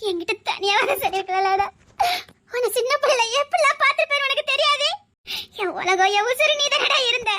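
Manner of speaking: tearful, laughing through sobs; grieving reproach, voice catching; crying. Acted. To the nephew she believed dead, tearfully laughing. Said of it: "அழாத".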